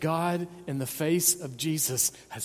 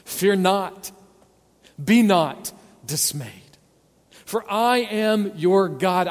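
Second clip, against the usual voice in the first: loud, slow, emphatic recitation; proclaimed hymn words; 4 semitones higher, 7 dB louder, slower than usual. Retold or imitated. Pastor reciting the hymn back to his congregation, loud and slow. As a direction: declare each line loud and slow, building on never. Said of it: "what we just sang just a few moments ago".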